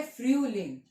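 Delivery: फ्यूलिंग as "FRYU-ling", umlaut rounded; German pronunciation. Shown as a demonstration. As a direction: say फ्यूलिंग clearly, falling on "ling". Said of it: "तो फ्यूलिंग है".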